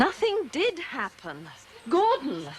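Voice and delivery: high, slow, emphatic denial; insistent protest. Acted. Mother denies affair, calls after son.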